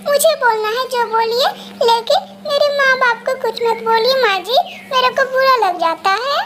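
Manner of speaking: plead, wounded but polite; daughter-in-law begging her mother-in-law to spare her parents; pleading bride. Acted.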